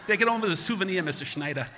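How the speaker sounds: loud, high Boston wisecrack; Boston accent. Retold or imitated. Doc hands patient the rock, jovial Boston accent. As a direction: toss it off with dropped Boston R's. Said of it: "he's from Boston".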